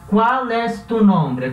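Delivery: slow clear question; careful teacher read. Shown as a demonstration. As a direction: read the example slowly as a model. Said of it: "por exemplo".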